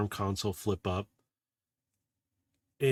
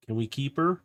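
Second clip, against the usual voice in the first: trying to sound innocent; 4 semitones higher than usual. Acted. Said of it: "She's just trying to be innocent".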